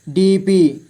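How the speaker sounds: डीपी split into डी, पी; syllable by syllable. Shown as a demonstration. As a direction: separate डी and पी in डीपी. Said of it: "थोड़ा fast पढ़ेंगे". (डीपी को तोड़कर: डी, पी)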